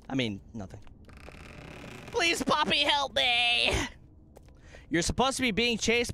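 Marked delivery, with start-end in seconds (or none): 2.1-3.7 calling for help. Real, not acted.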